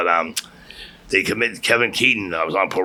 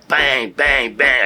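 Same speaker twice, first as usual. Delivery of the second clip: higher, punched-out bangs; imitated banging; 4 semitones higher, 4 dB louder, much slower than usual. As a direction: imitate the bangs of a police raid. Imitates door being battered at raid.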